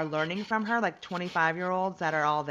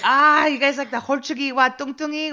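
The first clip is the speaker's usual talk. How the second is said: higher, louder mock Korean auntie voice; imitating the monk; 9 semitones higher, 11 dB louder than usual. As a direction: play the delighted older monk. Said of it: "she's like".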